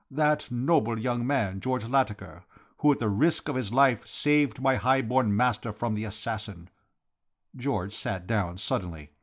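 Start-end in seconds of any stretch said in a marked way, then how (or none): 0.1-6.7 lightly voiced grandiose foreign Count; Count, solemn admiration. Count explaining who saved his master, solemn admiration. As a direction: praise the hero with formal fervour.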